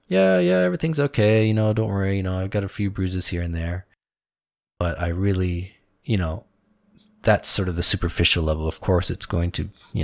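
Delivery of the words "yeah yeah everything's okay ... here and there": brushing off concern; stoic dad. Retold or imitated. Dad playing down his bruises to son, dismissive. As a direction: make light of it like a stoic father. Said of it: "my dad's a very stoic guy".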